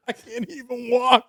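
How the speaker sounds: high, laughing through the words; cracking up. Real, not acted. Leaning on his sister in the story, real laughing voice. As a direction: barely get it out for laughing.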